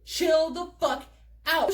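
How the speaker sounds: slow, spaced-out exasperated order; annoyed. Retold or imitated. Annoyed teller shoving drunk friend off, slow exasperated command. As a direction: tell them to chill, word by word. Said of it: "I get annoyed and I shoved her off me".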